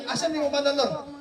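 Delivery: mas taas nga tingog, gisundog ang biyuda nga nangutana; gamay nga pagsundog sa babaye nga nangita sa bana; nagsundog sa biyuda. Retold or imitated. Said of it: "ingaw mo rin siya". (hinay nga pagsundog sa biyuda nga nangutana sa Ginoo)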